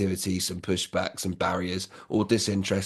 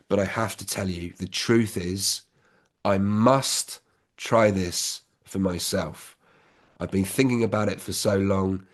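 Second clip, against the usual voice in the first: sincere heart-to-heart. Shown as a demonstration. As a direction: calmly ask them to understand you. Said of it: "and say, Look".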